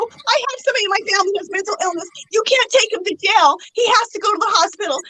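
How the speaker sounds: tearful rushed plea; crying. Retold or imitated. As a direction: plead fast through tears. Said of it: "I start crying".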